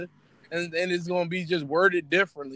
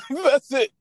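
laughing; 5 semitones higher than usual. Real, not acted.

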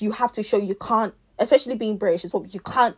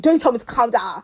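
louder mock-indignant comeback; retold irate retort; 2 semitones higher, 6 dB louder than usual. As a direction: imitate a man raising his voice. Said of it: "don't come and raise your voice".

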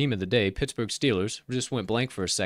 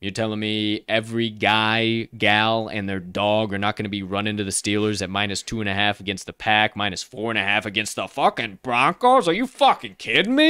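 put-on Yinzer accent. Average Steelers fan outraged at the betting lines, Yinzer accent. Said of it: "That's my best Yinzer accent".

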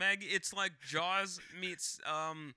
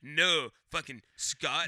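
tag; 7 dB louder, slower than usual. Retold or imitated. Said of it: "She was like".

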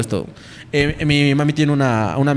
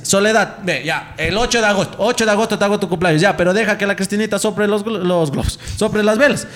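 higher-pitched imitation of a coaxing woman; negociando con el fantasma; 5 semitones higher than usual. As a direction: bargain with the ghost, mock pleading. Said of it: "Y la bachita le dice". (imitando a la señora que negocia, voz aguda)

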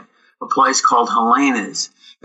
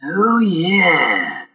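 smug actor; 3 semitones higher than usual. Retold or imitated. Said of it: "just the way he said it".

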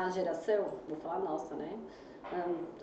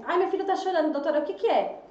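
mock worried parent; 6 semitones higher, 3 dB louder than usual. Quoting an anxious parent.

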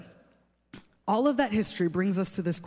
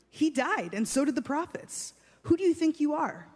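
higher-pitched, challenging exclamation; exclaiming; 4 semitones higher than usual. Acted. Religious leaders challenging Jesus, exclaiming in raised pitch. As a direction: act out indignant accusers, pitch raised. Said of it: "At this, the Jews exclaimed".

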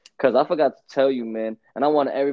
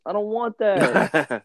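slow disgusted refusal; 7 semitones higher, 4 dB louder, much slower than usual. Retold or imitated. Rejecting waffles.

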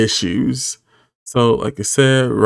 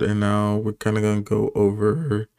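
voice cracking; 4 dB quieter than usual. Real, not acted. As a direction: voice cracks mid-sentence. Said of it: "sorry, my voice just cracked".

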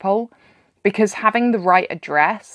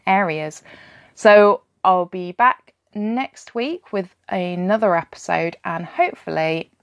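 croaky voice. Real, not acted. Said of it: "hopefully a less croaky".

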